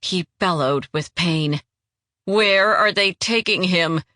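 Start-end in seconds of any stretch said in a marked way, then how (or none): 2.2-4.0 mild snarl. Acted. Demanding from the wounded traitor where they took him, a mild snarl. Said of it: "she snarled".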